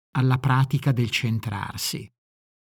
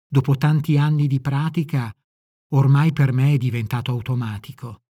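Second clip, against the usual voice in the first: normal talking voice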